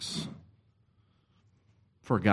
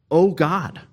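a pleading cry to God, higher and louder; intense cry; 6 semitones higher, 5 dB louder than usual. Retold or imitated. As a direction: call out to God in anguish. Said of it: "But this is an intense cry".

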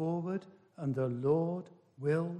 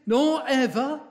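"nor ever" pushed up, higher and louder; stress on nor ever; 6 semitones higher, 6 dB louder than usual. Shown as a demonstration. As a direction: punch "nor ever" as the next negative. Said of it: "there's another negative".

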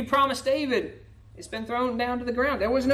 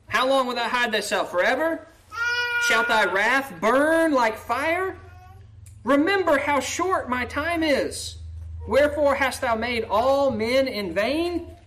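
pleading; 4 semitones higher than usual. Acted. Pleading psalm read aloud.

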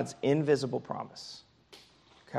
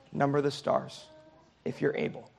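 gentle God; 4 dB quieter than usual. Retold or imitated. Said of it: "a loving correction ... how gentle".

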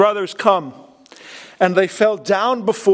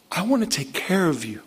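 softer, tender I want to take care of you; hushed reassurance to the brothers; 3 semitones lower, 6 dB quieter than usual. Acted. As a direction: say it gently, almost to yourself. Joseph's words said softly, then repeated.

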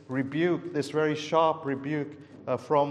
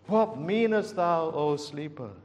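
sharp rebuke; 3 dB louder than usual. Retold or imitated. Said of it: "sharp rebuke".

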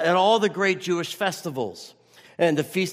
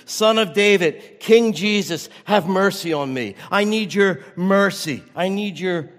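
raised, earnest plea; crying out for mercy; 3 dB louder than usual. Acted. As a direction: beg for mercy as if blind. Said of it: "we must cry out for mercy".

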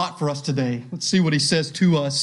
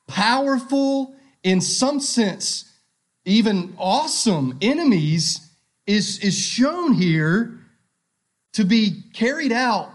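building sermon climax; 4 semitones higher than usual. Real, not acted.

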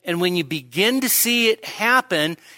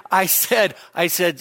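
ordinary talk, nothing marked

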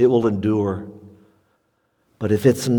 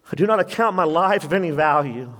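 higher, brisker fearless quote; fearless Paul; 4 semitones higher, faster than usual. Retold or imitated. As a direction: declare it without fear. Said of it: "Paul is so fearless here".

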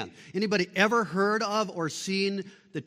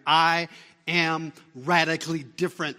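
louder, punched proclamation; emphatic proclamation; 6 dB louder than usual. Real, not acted. Preacher to congregation, a loud ringing proclamation. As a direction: throw it out to the room. Preacher repeats line to build.

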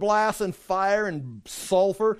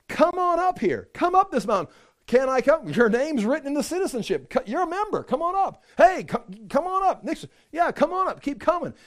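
higher, eager calling up; joyful welcome; 6 semitones higher than usual. Retold or imitated. Heavenly voice welcomes citizens up the mountain, eager higher call. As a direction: call them up gladly.

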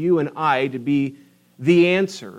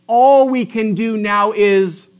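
mock resignation; 5 semitones higher, 6 dB louder than usual. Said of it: "The dumbest statement that comes out of my mouth".

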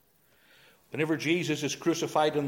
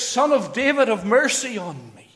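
mild mock shout; 3 semitones higher, 4 dB louder than usual. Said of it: "he shouts".

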